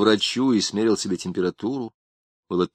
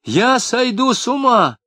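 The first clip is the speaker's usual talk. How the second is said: much higher, slow desperate wail; panicked cry; 13 semitones higher, 4 dB louder than usual. A narrator's reading. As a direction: cry out as if losing his mind. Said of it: "крикнул Тамаркин".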